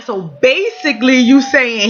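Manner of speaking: mildly smart-alecky self-quote, stretched "basically"; being smart. Retold or imitated. Woman twisting her partner's words, mildly smart. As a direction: lean on "basically" to needle him. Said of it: "I do it sometimes to be smart".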